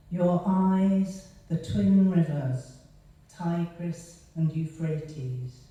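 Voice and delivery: slow, measured verse with firm phrase openings; poetry reading. Acted. Poet reads her song for Inanna Ishtar, measured recitation. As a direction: read each image separately, pausing between them.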